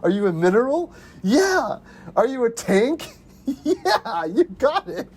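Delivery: high, silly back-and-forth quote; goofy twenty questions. Retold or imitated. Retelling the twenty questions scene, high goofy voices. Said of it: "He goes".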